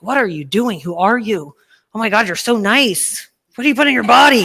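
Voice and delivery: excited friends. Retold or imitated. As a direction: gush like amazed friends. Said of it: "people were like".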